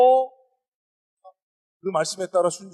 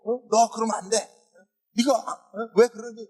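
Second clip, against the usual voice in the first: higher-pitched mock scolding; 화난 선생님; 6 semitones higher than usual. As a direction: imitate a teacher telling a child off. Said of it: "막 화를 냈다는 거예요". (화내며 야단치는 선생님 흉내)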